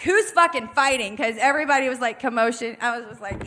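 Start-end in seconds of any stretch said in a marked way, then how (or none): 0.0-1.2 retold call-out. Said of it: "I'm like".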